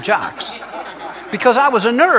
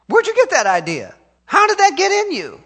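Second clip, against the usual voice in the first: much higher, ringing challenge; high preaching cry; 10 semitones higher than usual. Acted. Preacher challenging the congregation, high ringing cry. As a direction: throw the question up high.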